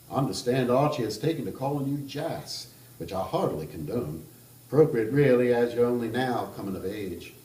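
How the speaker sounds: put-on a charming Kentucky gentleman teasing the table, Kentucky accent; playful Southern Kentucky voice, loud start. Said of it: "I'm going to attempt that kind of accent".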